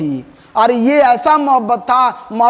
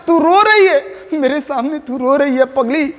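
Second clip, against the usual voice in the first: laughing lover; 3 semitones higher than usual. Acted. Poet teasing crying beloved, laughing. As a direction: laugh it out fondly at her tears. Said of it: "कवि कह रहे हैं अपनी प्रेमिका पत्नी".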